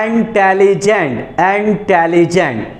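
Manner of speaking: इंटेलिजेंट said slowly in three measured beats; syllable demonstration. Shown as a demonstration. Teacher showing students a three-syllable word, slowly broken up. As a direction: break इंटेलिजेंट slowly into its parts. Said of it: "तीन बार में निकला".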